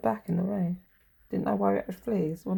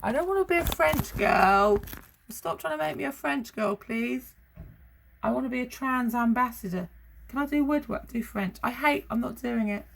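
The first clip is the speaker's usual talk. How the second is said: higher, whiny protest; sulky child; 4 semitones higher, 3 dB louder than usual. Pretend. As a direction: plead like a stroppy teenager.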